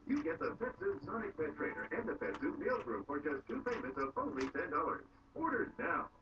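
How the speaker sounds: hard sell ad. Acted. TV pet product commercial.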